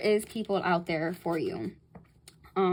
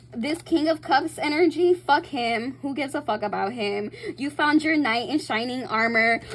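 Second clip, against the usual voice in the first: louder and higher, fast energy; excited hype; 4 semitones higher, 4 dB louder than usual. Real, not acted. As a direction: cheer the listener on. Hyping the listener's new love.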